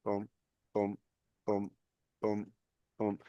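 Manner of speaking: counting out a heartbeat, boom by boom. Shown as a demonstration. Host counting his own pulse aloud, soft steady booms. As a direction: tap out each pulse with a short boom. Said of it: "That feels like about sixty-five".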